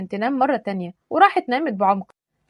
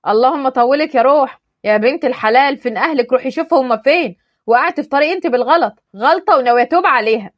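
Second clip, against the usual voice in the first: louder fed-up rant; exasperated scolding; 5 dB louder than usual. Acted. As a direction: lose patience with her.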